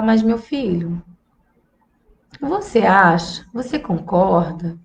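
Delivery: soft, slow probing questions; gentle questioning. Shown as a demonstration. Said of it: "aí você fala". (mãe questionando o filho com suavidade)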